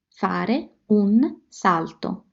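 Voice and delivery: Fare un salto said very slowly; slow model repeat. Shown as a demonstration. Teacher repeating Fare un salto very slowly. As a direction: stretch Fare un salto out for learners. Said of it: "Expression number seven".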